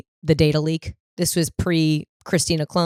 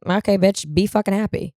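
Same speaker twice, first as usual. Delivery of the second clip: put-on an old-school relative telling a kid to get over it; tough-love dismissal; 3 semitones higher than usual. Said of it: "someone would be like".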